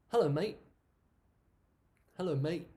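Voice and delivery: mate said as mei, the t dropped; mate without t. Shown as a demonstration. Teacher showing how she greets a friend, the t dropped. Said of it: "I normally say".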